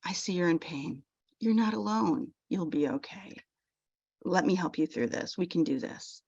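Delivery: soft, soothing phrases; tender reassurance to oneself; gentle self-talk. Shown as a demonstration. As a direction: comfort yourself like a friend. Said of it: "but saying".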